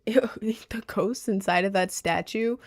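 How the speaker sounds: whispered, mock-eerie; spooky whisper. Telling viewers about the statue ghosts, mock-spooky whisper. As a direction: hush it like a ghost story.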